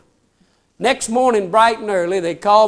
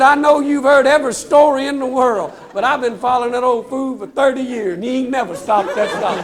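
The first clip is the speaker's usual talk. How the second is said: louder, higher, laughing through it; louder punchline; 4 semitones higher, 4 dB louder than usual. Retold or imitated. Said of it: "don't mess this up. I'm fixing to tell you".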